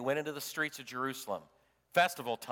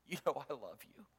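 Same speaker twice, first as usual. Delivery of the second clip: blubbering; 3 dB quieter than usual. Retold or imitated. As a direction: confess love while on the edge of crying. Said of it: "is just blubbering".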